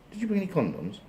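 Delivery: high-voiced questioning duck wife; Missus Duck voice. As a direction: put on a high voice for the duck's wife. Voices Missus Duck asking her husband.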